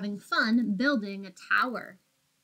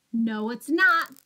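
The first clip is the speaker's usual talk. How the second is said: louder, slow, defiant no; crying out; 7 dB louder, slower than usual. Acted. Minosaur refuses Apatosaur in a tug of war, loud cry. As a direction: refuse loudly and deliberately. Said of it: "cried Minosaur".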